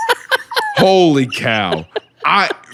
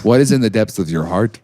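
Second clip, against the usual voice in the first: booming metallic robot; 2 semitones lower than usual. Pretend. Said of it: "But ask in a robot voice".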